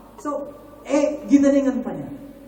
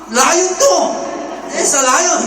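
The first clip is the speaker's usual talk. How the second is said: louder, higher alarmed exclamation; panicked gorilla impersonator facing danger; nervous panic; 6 semitones higher, 6 dB louder, slower than usual. Retold or imitated. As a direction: blurt it out in mock alarm. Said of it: "siyempre, kinakabado".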